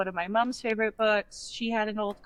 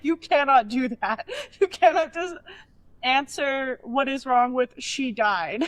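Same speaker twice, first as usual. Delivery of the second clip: scolding grandma; 3 semitones higher, 3 dB louder than usual. Retold or imitated. Voices grandma scolding her.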